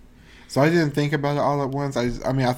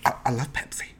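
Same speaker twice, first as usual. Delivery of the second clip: put-on Louisiana accent; faster than usual. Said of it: "now that you said Louisiana accent".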